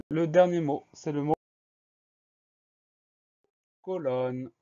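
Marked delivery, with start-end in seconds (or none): 3.8-4.5 COLONNE stretched slowly into co-lonne; dictation-style "colonne", slow and drawn out; syllable by syllable. Shown as a demonstration. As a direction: say "colonne" drawing out both syllables. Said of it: "Première syllabe".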